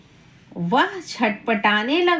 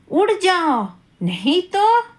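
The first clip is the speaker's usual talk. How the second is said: mock threatening bumblebee; a playful warning to the butterfly; threat; 4 semitones higher than usual.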